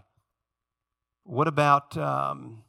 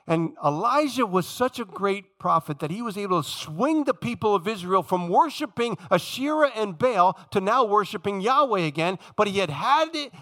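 higher-pitched, emphatic preacher delivery; impassioned preaching; 6 semitones higher, 3 dB louder than usual. Acted. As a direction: preach it with rising fervour, landing hard on key words. Preaches at full force.

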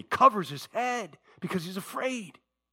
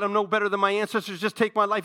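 crying out; 5 semitones higher, 4 dB louder, faster than usual. Retold or imitated. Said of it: "he cries out to God".

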